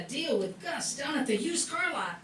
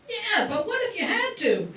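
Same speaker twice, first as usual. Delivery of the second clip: teasing laugh; 7 semitones higher than usual. Acted. Brother keeps teasing.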